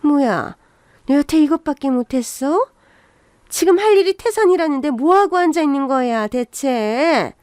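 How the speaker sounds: a touch of sudden anger, last word dragged out; flaring up angrily. Acted. Mother-in-law scolding idle daughter-in-law at kimchi-making, mildly angry. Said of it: "버럭 화를 내시는 겁니다".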